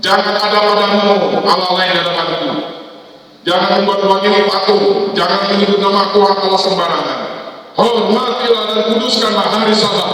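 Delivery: preacher booming the Ten Commandments; proclaiming commandments. Acted. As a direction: thunder the law out from the pulpit.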